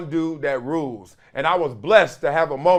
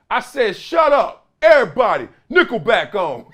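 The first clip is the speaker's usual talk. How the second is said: bossy veteran yell; 4 semitones higher, 6 dB louder than usual. Retold or imitated. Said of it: "And he like".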